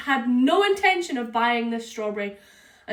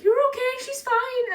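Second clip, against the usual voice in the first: reassuring friend; 12 semitones higher than usual. Retold or imitated. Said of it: "Rebecca's like".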